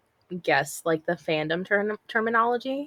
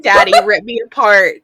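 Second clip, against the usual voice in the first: mock dramatic read; 8 dB louder than usual. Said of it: "it's like".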